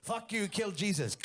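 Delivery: high, loud mother-in-law curse, drawn out; mock angry outburst. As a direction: imitate an outraged mother-in-law blowing up. Mother-in-law voice snaps in quarrel.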